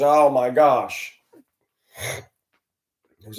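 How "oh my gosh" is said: slow, drawn-out mock groan; lightly imitated exasperated groan; groaning dismay. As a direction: drag it out like a weary groan. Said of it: "everybody groans and says".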